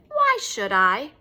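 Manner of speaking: put-on slow sulky child talking back; sulky defiance. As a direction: drag it out through a pout, defiant. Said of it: "pulled her mouth down".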